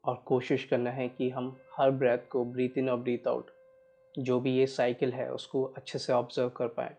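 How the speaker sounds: measured, even meditation guide with long pauses; guided meditation. Real, not acted. Guiding listeners to watch each breath, unhurried meditation voice. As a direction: steadily guide listeners through breath awareness.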